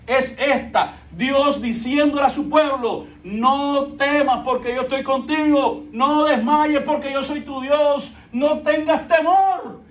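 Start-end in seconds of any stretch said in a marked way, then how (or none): 3.2-9.8 God's comfort. Acted. God speaking to his people.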